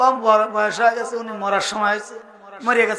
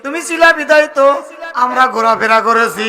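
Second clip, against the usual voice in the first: mock weeping lament; 2 semitones higher, 4 dB louder than usual. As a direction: imitate sons wailing over their father. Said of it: "কান্দে আর বলে". (কান্নার সুরে বিলাপের অভিনয়)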